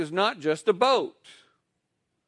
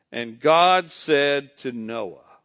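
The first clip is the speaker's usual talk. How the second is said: slow lead-in; 3 semitones lower, slower than usual. Shown as a demonstration. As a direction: lead the congregation slowly. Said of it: "just say the, the first five words".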